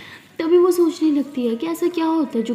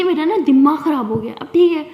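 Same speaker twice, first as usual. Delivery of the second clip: irritated outburst; 2 semitones higher, 6 dB louder than usual. Acted. Angry girl on call.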